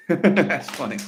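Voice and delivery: laughing through the words; real amusement. Real, not acted. Reacting to Marty's funny remark, real laughing amusement.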